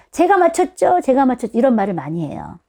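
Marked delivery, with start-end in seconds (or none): 0.1-1.6 put-on excited child. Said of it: "애들이 항상 그런다니까요".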